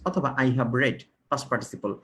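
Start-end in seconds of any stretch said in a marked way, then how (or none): 0.3-1.0 "read" said like "red"; short "e" in read after "I have"; past participle pronunciation. Shown as a demonstration. Teacher shows the past participle, read as "red". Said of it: "উচ্চারণটা একটু কি হয়?".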